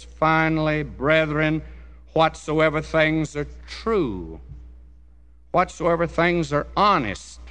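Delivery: measured preacher's cadence, each virtue punched then falling; emphatic scripture reading. Acted. Preacher reading Philippians to the congregation, emphatic scripture reading. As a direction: read it out as a solemn list.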